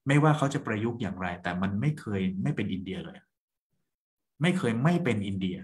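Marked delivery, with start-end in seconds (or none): 4.4-5.6 both "ไม่" in "ไม่เคยไม่เป็นอินเดีย" said distinctly; deliberate double negative. Shown as a demonstration. Host underlining his point to co-host and listeners, deliberate double "ไม่". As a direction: set the phrase apart, marking each "ไม่". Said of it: "มันมีไม่สองครั้งนะ".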